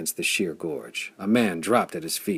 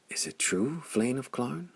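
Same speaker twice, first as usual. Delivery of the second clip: softer, hushed question; a quiet awed whisper to the hero; 5 semitones higher, 6 dB quieter than usual. A narrator's reading. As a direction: breathe the question in awe. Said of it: "he whispered".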